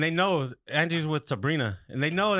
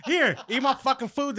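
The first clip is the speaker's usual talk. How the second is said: high, slow, indignant mock command; acted-out hangry huff; retold pissed outburst; 9 semitones higher than usual. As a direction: draw it out, pitched up and huffy. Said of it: "I was fucking pissed".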